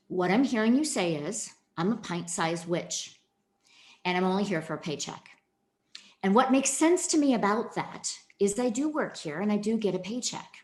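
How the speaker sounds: steady, soothing therapist voice; calm demo. Shown as a demonstration. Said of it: "I took a deep breath".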